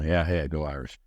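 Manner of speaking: low, soft, offhand acknowledgement; half-hearted reply. Retold or imitated. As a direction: imitate a passerby who barely engages. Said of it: "I expected the, uh, you know, like you said".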